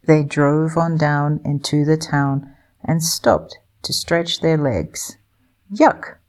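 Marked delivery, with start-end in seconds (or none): 5.7-6.2 high, disgusted squeal; a small bird wrinkling its beak at a stink; little kiwi, grossed out. A narrator's reading. Little kiwi Kapai recoils from the sulphur smell, high disgusted squeal. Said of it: "asked Kapai".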